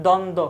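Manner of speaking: দ্বন্দ্ব with both b's left silent; silent ব-ফলা. Shown as a demonstration. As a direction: say দ্বন্দ্ব as "dondo", no b sound. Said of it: "ব ফোলার উচ্চারণ পাচ্ছি না".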